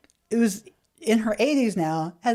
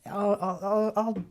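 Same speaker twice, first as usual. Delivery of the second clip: whisper; 6 dB quieter, slower than usual. Acted. Whispering back.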